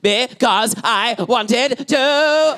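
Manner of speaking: slow, high mock little-boy sobs; talking while sobbing. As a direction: sob out each word like a small boy. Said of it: "talking and sobbing at the same time".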